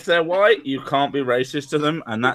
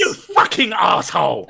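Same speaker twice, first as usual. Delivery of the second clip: mock outrage; 2 semitones higher than usual. Mock outrage at saying Brit.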